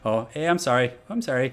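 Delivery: light mock Canadian accent. Shown as a demonstration. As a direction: toss off a stereotypical Canadian accent, apologetically. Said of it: "Canadian is just".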